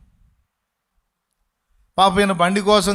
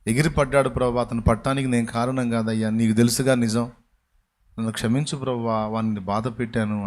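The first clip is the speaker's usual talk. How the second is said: lowered prayerful plea; 7 semitones lower than usual. Retold or imitated. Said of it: "బండిలో కూర్చొని ఆలోచిస్తూ".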